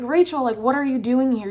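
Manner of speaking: urgent and scared, trying to hurry her; panicked plea. Retold or imitated. Dreamer urging her friend to flee, panicked and loud. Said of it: "And I was like".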